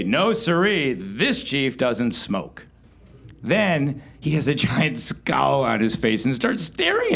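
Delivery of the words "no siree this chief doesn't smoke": slow, proud declaration; mock dignified boast; proudly. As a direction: say it slowly like a proud chief. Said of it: "So I said to him proudly".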